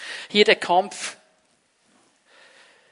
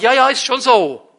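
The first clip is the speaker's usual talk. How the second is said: dismissive yeah yeah; 3 semitones higher, 10 dB louder than usual. Retold or imitated. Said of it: "hier oben sage ich".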